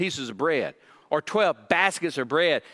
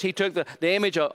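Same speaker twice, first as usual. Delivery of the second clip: ordinary talk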